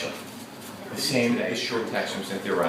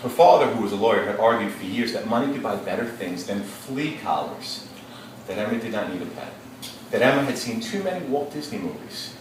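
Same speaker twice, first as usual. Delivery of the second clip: rereading aloud. Shown as a demonstration. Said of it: "let me go back for a second and reread".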